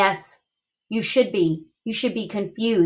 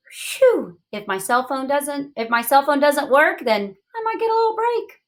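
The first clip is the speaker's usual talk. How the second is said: relieved adult, rising higher at the end; tired adult; 5 semitones higher than usual. Retold or imitated. Teacher imitating a busy adult, relieved. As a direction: sigh it out like a busy parent. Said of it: "adults who say".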